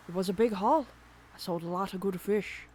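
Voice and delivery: bragging fisherman, hearty; lightly voiced old salt. Voicing Willy.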